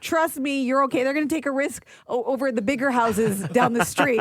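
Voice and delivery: exasperated big sister. Retold or imitated. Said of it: "She's like".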